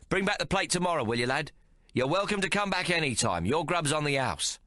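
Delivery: high jovial proprietor voice; lightly voiced jolly chef; hearty chef. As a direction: boom it out cheerfully. Chef inviting them back.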